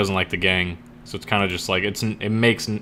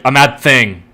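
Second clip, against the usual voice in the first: mock outburst; 3 semitones higher, 7 dB louder than usual. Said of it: "smacks her hand on the table really hard".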